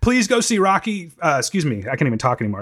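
real tears breaking through the talk; crying a little. Real, not acted. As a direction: let the words catch as you cry. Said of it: "I'm kinda crying right now".

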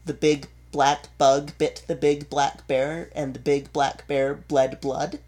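crisp tongue twister, each word distinct; clear diction. Shown as a demonstration. Voice coach showing a stage warm-up, clear diction. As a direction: articulate each consonant cleanly. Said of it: "you need to have very clear diction".

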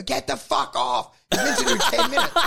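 hammed-up yell at the stage intruder; retold yell. Comedian yelling at the pie man, mock anger. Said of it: "and go".

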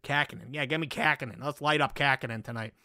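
Boston-accented Kahkonen, first vowel as in "cat". Real, not acted. Sports bettor playing up his own Boston accent on a goalie's name. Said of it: "see, that's my Boston accent".

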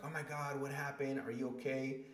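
a mother's sudden worry, mildly voiced; worried mom. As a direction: mom fearing the worst on the phone. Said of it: "So she's like".

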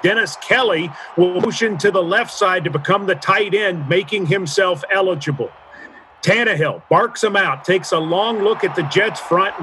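radio play-by-play, building tension; play-by-play call. Pretend. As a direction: call the drive like a live broadcast. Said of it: "So who are we playing?".

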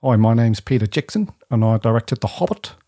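put-on a barely shifted New Zealand accent; bad Kiwi accent. Co-host failing a Peter Jackson impression, Kiwi accent. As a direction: attempt a Kiwi and mostly miss. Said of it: "I can't even do a Kiwi".

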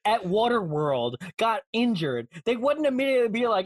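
normal talking voice

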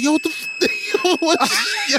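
high startled shout, half laughing; startled yelp. Retold or imitated. Boy startled by cousin's scream, yelping high. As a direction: yelp it like you just got scared. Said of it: "I was like".

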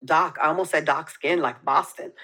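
dark said Boston style, broad ah; Boston accent. Pretend. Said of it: "That was a good accent".

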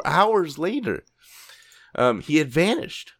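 slow, drawn-out, stressed delivery; slow dramatic. Shown as a demonstration. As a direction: stretch it out for drama. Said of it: "Why would you wait an hour?".

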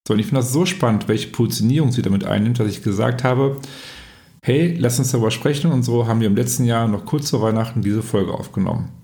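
measured, presenter-style episode introduction; podcast intro. Real, not acted. Host introduces guest Miriam to podcast listeners, podcast intro.

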